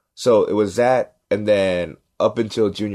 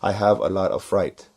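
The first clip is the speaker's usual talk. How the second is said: put-on lightly Korean-accented English, measured; a hint of a Korean immigrant accent; Korean dad's accent. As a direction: imitate dad's Korean-accented example sentence. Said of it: "my dad can't speak English that well".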